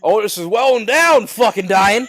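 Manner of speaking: loud, high, laughing through the words. Real, not acted. Friend jokes about the dying guy, laughing hard. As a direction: crack up while saying it. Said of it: "laughing through remark".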